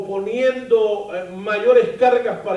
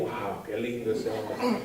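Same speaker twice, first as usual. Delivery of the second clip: soft, lower, laughing "wow"; quiet amused imitation of a smitten wife; mock wife's admiration; 8 semitones lower, 10 dB quieter than usual. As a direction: play the wife's swoon with a laugh. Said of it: "mi esposa cuando me vio por primera vez dijo".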